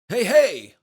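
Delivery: loud, high bellowed catchphrase; big pal voice. A narrator's reading. Dad greeting his son, bellowing big pal voice. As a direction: holler it like an over-hearty dad. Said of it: "Dad's big pal voice".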